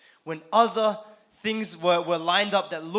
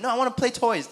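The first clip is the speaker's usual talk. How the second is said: put-on higher, complaining little-boy voice; whiny toddler; 7 semitones higher, 4 dB louder than usual. Dad imitating his son refusing to leave, mock whine. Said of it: "He's like".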